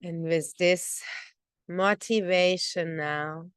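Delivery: even, measured meditation guidance with pauses; guided meditation. Real, not acted. Teacher opening breath concentration practice, guided meditation voice. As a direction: lead listeners into focusing on the breath.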